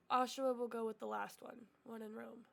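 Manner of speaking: stuffy sniffly nose. Real, not acted. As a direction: talk through a sniffly nose. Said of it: "I'm sniffly".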